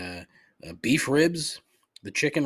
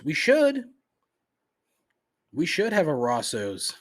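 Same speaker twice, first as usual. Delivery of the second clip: much higher, louder insistence; emphatic outburst; 5 semitones higher, 4 dB louder than usual. Real, not acted. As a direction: declare it with fervor. Ranting about local food.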